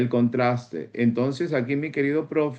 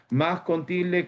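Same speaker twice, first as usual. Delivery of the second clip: "más con tilde" lifted higher, "tilde" pushed; más con tilde stressed; 5 semitones higher, slower than usual. Shown as a demonstration. Teacher drilling the accent mark, stressing "más con tilde". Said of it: "acuérdate eso".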